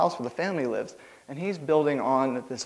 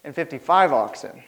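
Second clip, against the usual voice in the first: louder, slowed, laughing through a counteroffer; haggling while laughing; 5 semitones higher, 5 dB louder, slower than usual. Acted. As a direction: haggle like a shrewd merchant, chuckling. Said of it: "like any good Jewish businessman".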